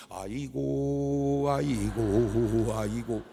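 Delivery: long, droning fake funeral lament; mock keening, slowly drawn out; put-on mourning wail. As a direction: wail on cue for the arriving guest. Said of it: "슬프면 울고 아니면 말해야 되는데".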